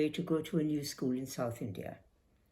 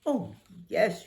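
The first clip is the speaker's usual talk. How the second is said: cheerful; 6 semitones higher, 3 dB louder than usual. A narrator's reading. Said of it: "she replied cheerfully".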